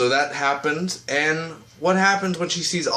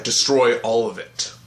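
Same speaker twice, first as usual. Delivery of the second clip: slow, lightly deepened command; a hint of a slow, grave leader; deep commander voice; slower than usual. Oliver ordering the virus destroyed, slow mock-deep voice. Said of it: "he does more of a deeper voice".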